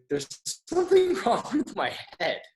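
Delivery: high-pitched, half-laughing alarm; mock panic. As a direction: retell your freak-out in a high, hammed-up voice. Retelling his panic to a friend.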